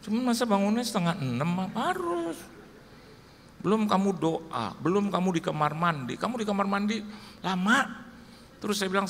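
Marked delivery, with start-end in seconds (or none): 1.7-8.0 stern wife. Retold or imitated.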